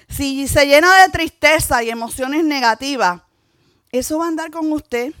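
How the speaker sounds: emphatic sermon warning; preaching. Acted. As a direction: press the warning on the congregation. Warns the congregation. (predicación enfática de advertencia)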